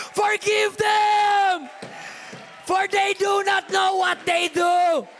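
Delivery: high, loud, climactic sermon shouting; full-force preaching. Acted. Pastor rousing the congregation toward forgiveness, shouting. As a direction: preach it to the rafters.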